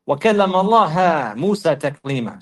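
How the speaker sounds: اللَّهَ recited as "Allaha"; changed case ending. Retold or imitated. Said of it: "Read it like this".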